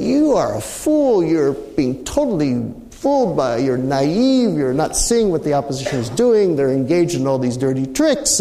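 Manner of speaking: half-hearted mock shout at a foolish mediator; retold shouting. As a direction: replay the president berating you. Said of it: "proceeded to shout at me".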